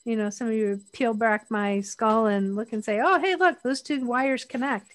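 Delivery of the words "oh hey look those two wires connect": mock discovery. Voices someone peering into skull.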